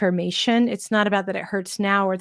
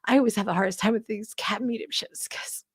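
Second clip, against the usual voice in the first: softer, voice giving way to a whisper; choked up; 5 dB quieter, faster than usual. Real, not acted. Medium moved by a cat reading, choking up. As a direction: hold back real emotion. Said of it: "it's gonna get me".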